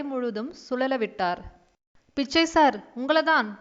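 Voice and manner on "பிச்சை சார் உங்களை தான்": a louder second call, name stressed. Acted. Young shopkeeper calls the distracted old man louder. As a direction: raise the voice to get his attention. Calls again, unanswered the first time.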